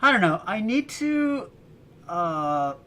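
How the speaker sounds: high, slow, lightly put-on voice; a hint of a little wise creature; playful mock Yoda. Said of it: "everybody's saying I sound like Yoda".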